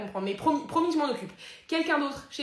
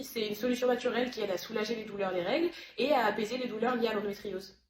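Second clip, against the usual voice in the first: ordinary delivery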